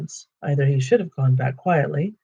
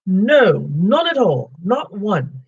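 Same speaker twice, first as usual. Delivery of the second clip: hurried hobbit; 5 semitones higher, 4 dB louder, much slower than usual. Acted. Bilbo quickly takes it back.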